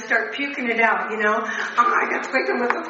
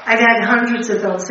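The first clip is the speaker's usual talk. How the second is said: much louder, preaching it to the room; forceful; 3 semitones lower, 8 dB louder than usual. Real, not acted. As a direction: drive the point home to the whole meeting. Addict hammering home her message.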